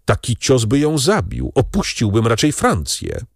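put-on grateful young man. Albert thanks his saviour Beauchamp, fervent. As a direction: pour out gratitude and relief.

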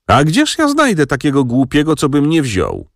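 high-pitched aunt's lament; acted self-pitying wail at normal volume; plaintive retort. A narrator's reading.

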